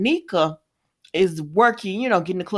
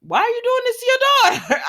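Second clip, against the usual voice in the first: mock exasperation; 6 dB louder, much faster than usual. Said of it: "But I was like".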